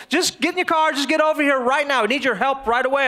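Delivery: mildly panicked retold plea, rushing at the end; frantic mom. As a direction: act out a mother urgently summoning help. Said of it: "she's frantic".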